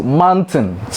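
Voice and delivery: "mountains" as "man-tins"; mispronounced mountains. Shown as a demonstration. Teacher giving an example of the error, "mountains" as "man-tins". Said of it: "So don't say mountain".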